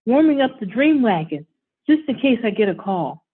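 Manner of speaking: put-on eager child explaining his game; excited little boy. Child character speaking excitedly.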